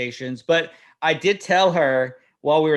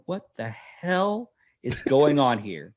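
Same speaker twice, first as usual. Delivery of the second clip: slow, measured demand; stern disbelief; slower than usual. Retold or imitated. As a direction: drag out each word, held in. Retelling confronting daughter in car.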